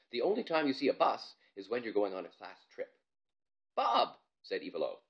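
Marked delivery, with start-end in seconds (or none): 3.7-4.2 higher, louder call; impatient girl. Acted. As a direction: snap his attention back. Ivalo scolding.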